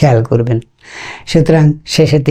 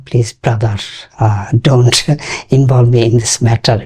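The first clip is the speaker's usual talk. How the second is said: smiling; much slower than usual. Shown as a demonstration. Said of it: "একটু smiling ওয়েতে বললেন".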